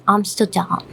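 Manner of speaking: Amsterdam as a Brit says it, with a light final syllable; British pronunciation. Shown as a demonstration. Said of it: "the British is".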